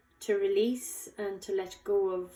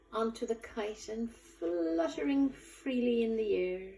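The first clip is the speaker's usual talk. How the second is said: guided meditation. Acted. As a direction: guide them gently, unhurried, lingering on key words. Leads a guided visualization.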